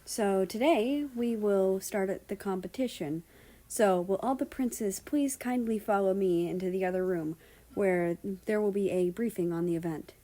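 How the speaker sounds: put-on lightly Japanese-accented English; polite guard with a Japanese accent. Fukushima briefs the princes in a Japanese-English accent. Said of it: "in a Japanese-English accent".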